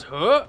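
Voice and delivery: short, loud imitated grunt; quick creature huh; Goatman noise. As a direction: mimic Goatman bringing down the cage. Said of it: "He always goes".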